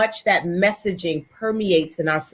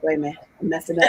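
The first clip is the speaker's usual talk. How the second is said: fast, low laughing aside; laughing at herself; 5 semitones lower, 4 dB quieter, much faster than usual. Retold or imitated. Writer catching her own mistake, laughing. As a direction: rush it while laughing. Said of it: "Then I was like".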